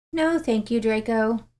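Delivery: lilting, dreamy call back; sing-song. Acted. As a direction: let the words float up and down. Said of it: "her sing-song voice called back".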